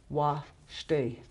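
wa stay, slowly, the weight on stay; stress on second syllable. Shown as a demonstration. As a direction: split wa stay and accent the stay. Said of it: "the one that's accented".

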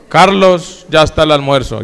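a touch of irritation calling his name; curt summons from an annoyed wife; mild annoyed wife. Retold or imitated. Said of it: "cuando está brava me dice".

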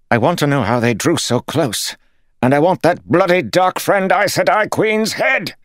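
enraged lord demanding a head; furious shout. A narrator's reading. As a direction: scream it at the whole camp. Lord raging at captains.

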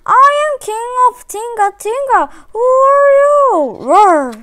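high, loud royal challenge, then a spoken roar; mild scary roar. A narrator's reading. Lion challenges Crocodile at the water hole, loud roar. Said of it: "The roar was so scary".

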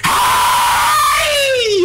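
sharp high yell; sudden high shout at the other player. Real, not acted. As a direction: call out to grab his attention. Yelling at opponent in game.

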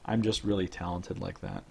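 talking through clenched teeth; brush between teeth. Real, not acted. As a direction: speak with a brush held in your teeth. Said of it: "holding the brush... talking through my teeth".

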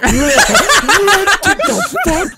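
high, loud, drawn-out yell; exasperated outburst. Retold or imitated. Teammate re-enacting his frustration at ignored call outs, exasperated yell. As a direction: screech it slowly, half laughing. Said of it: "I'm like".

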